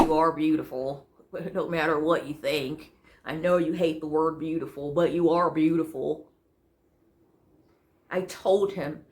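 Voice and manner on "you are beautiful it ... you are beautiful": lower-pitched quote of a reassuring man; insistent suitor. Acted. Voices the man insisting she's beautiful.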